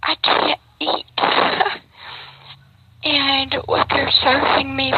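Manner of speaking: choked-up, high, breaking voice; fighting back tears; real tearful, voice cracking high; getting emotional. Real, not acted. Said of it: "I'm getting emotional".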